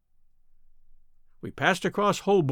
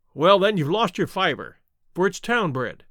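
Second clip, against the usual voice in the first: a mildly snappy retort; snapped. Acted. Salesman snapping back at Holmes about the bird. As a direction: cut him off, a little sharp. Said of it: "snapped the salesman".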